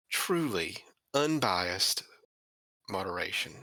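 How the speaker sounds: slow, dripping with sarcasm; sarcastic. Acted. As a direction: say it as if you can't mean it. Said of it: "I can't say that with a straight face".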